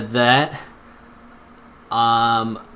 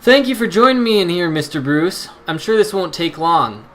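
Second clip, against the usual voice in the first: inspector voice; 3 semitones higher than usual. Acted. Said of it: "the voice I was doing".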